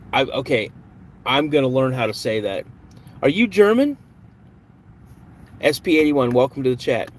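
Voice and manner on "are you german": surprised. Real, not acted. Reacting to German chat message.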